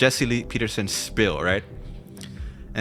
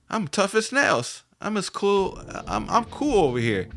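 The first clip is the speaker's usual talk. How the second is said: imitating the girl; 10 semitones higher than usual. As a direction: play her boast in a high put-on voice. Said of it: "It's like".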